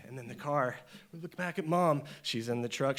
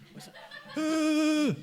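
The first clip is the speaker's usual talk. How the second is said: high, alarmed question, falling at the end; sudden high alarm; startled question; 13 semitones higher, 4 dB louder than usual. Retold or imitated. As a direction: blurt it out as the car speeds up. Kid noticing brakes failing.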